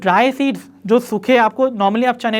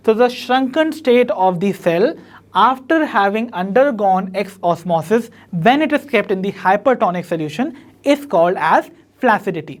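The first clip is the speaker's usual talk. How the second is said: slow, deliberate note-taking pace; teacher reading a definition aloud for notes; slow dictation; much slower than usual. Shown as a demonstration. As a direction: dictate each word so students can write it down.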